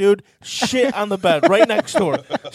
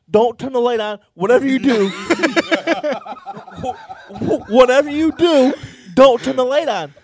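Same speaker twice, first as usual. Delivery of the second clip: urgent plea; 4 semitones higher, 7 dB louder than usual. Retold or imitated. Pleading with girlfriend in story.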